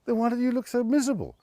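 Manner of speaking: high, quick put-on voice in disbelief; incredulous retort. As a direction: fire the question off high and fast, baffled. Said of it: "I said".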